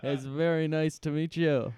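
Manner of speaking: lightly voiced mock rock star; a hint of impression, amused; a famous singer. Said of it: "you say hello to a famous singer".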